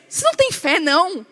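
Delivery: high-pitched exasperated challenge; acted indignant scolding; Jesus. Woken Jesus scolding his disciples, exasperated. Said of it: "E falou pra eles".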